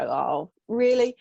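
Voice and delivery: a drawn-out sarcastic oh, then a loud really; mock unimpressed. To a troll, a sarcastic oh really. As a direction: brush off a troll with a dry oh really. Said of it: "just go".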